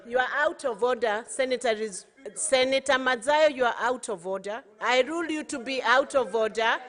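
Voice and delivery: loud stern ruling; shouting order order. Real, not acted. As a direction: call them to order loudly. Speaker shouting down a senator.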